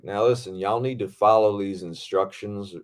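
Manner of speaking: lightly imitated Southern stunt coordinator; Southern accent. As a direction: give a measured safety briefing with a Southern accent. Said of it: "everyone's got a Southern accent. He's like".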